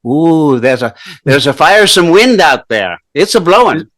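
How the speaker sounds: put-on Dublin suburbia Irish accent. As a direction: put on a Northern Irish lilt. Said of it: "Are you doing a Scottish accent? Irish?".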